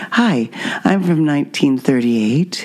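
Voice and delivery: slow, soft Mid-Atlantic accent, soft R's; a touch of a 1938 Mid-Atlantic accent; old-timey Mid-Atlantic accent. Shown as a demonstration. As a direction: sound like a 1938 film star. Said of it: "Soft R's".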